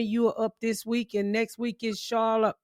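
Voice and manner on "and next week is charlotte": a hint of an English accent; lightly British-sounding. Real, not acted. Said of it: "say that in your English voice".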